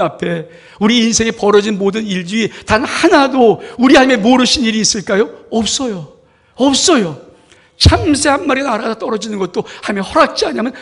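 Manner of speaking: loud, high, fervent preaching; full-force preaching. Acted. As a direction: preach it out with all your force. (힘차게 외치는 설교)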